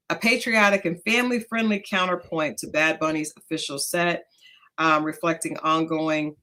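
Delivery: measured, informal news read; news item read-out. Real, not acted.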